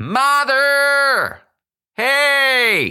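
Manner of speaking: put-on very high, shrill girl's shout, hey stretched long. Explaining a story line to learners, demonstrating a girl shouting. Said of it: "shouting at her mother, like".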